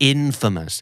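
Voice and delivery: infamous stressed on the first syllable, IN-famous; a second slow model of infamous; correct pronunciation. Shown as a demonstration. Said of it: "อันนี้ยกเว้นนะครับ". (ออกเสียง infamous เน้นพยางค์แรก)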